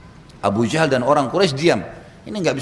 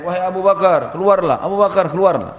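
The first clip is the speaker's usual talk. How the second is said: calling loudly to someone inside the garden; a shouted summons, demanding he come out; retold shouting; 4 semitones higher, 4 dB louder than usual. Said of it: "Abu Jahal teriak-teriak". (berseru keras memanggil keluar)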